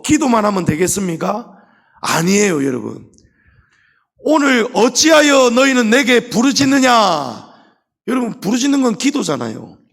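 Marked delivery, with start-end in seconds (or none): 4.2-7.5 higher, louder, rebuking question; 꾸짖는 하나님의 음성; voice of God. Acted. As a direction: boom God's rebuke from above. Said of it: "이 말씀이거든요".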